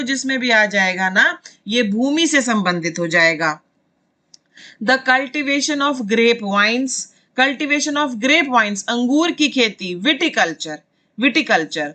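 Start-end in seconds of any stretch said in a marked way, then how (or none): 4.8-8.8 very slow, word-by-word reading of a definition; slow teacher dictation in English. Shown as a demonstration. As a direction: read it out slowly so students can follow.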